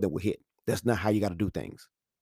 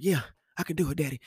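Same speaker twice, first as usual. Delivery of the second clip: put-on higher-pitched child answering; little boy; 5 semitones higher, 3 dB quieter, faster than usual. Son answers dad before last shot, brave little voice. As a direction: imitate a kid being brave for daddy.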